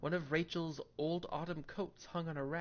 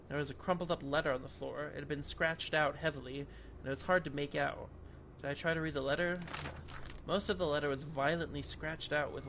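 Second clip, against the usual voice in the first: steady narrating read of game text; story narration. Acted. Reads game text aloud.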